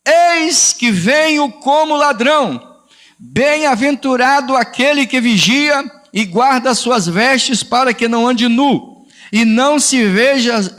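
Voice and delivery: slow, emphatic scripture reading; leitura bíblica solene. Acted. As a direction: proclaim each word of the verse slowly. Reads scripture aloud, slowly. (leitura lenta e solene da Bíblia)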